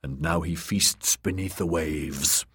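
solemn sermon rising in force; prophet preaching. Acted. Priest preaches to the drowned men.

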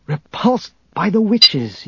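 put-on slow, high-pitched old master's voice; Yoda. A narrator's reading. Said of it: "Yoda had said".

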